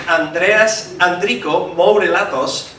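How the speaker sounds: name said in a Spanish accent. Real, not acted. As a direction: give the name a Spanish pronunciation. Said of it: "pronounce it with my Spanish accent".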